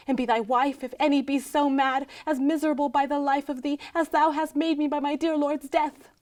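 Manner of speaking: forceful, unbroken pronouncement; bitter curse. Acted. Widow repeating the curse on her lord's killer, bitter. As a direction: drive the curse home on a level pitch.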